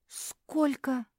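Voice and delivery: a high, startled gasp of a question; shocked at the huge sum, high gasp; gasping in surprise. Acted. Mafi hearing the price, a startled high gasp. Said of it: "ахнула Мафи".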